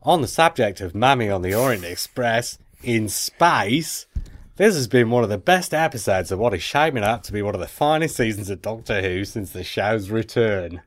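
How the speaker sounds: effortful, badly faked Aussie accent; Australian accent. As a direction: read the email in mock Australian. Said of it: "It's the worst accent I've ever heard".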